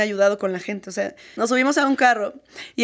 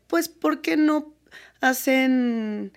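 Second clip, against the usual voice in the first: mock ignorant man; 2 semitones higher than usual. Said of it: "típico hombre ignorante que dice".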